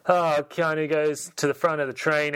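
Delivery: normal talking voice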